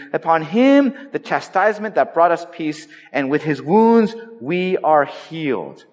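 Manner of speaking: slow, lifted Bible reading; solemn scripture reading. Acted. Preacher reads Isaiah to the congregation, solemn and lifted. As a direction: read the verse with weight and gravity.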